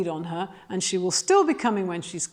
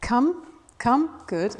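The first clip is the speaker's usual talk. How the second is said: gentle, even calling of come; calm come call; 2 semitones higher, much slower than usual. Shown as a demonstration. Trainer calls the dog in gently, calm call. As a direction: call the dog in calmly, no shouting. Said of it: "I walk towards the dog and I will say".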